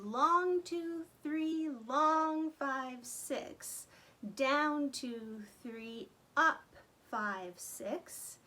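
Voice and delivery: slow counted bowing pattern; counting bow strokes. Shown as a demonstration. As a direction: stretch the long beats slowly. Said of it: "use our bow to accomplish that accent".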